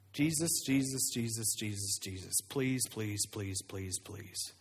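pleading that fades to a whisper; desperate prayer. Retold or imitated. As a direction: beg quietly until the voice gives out.

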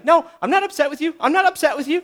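hurried, high insisting; a peacemaker hiding upset, fast and high; mock denial, fast and high. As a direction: brush it off too quickly. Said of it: "why you're upset".

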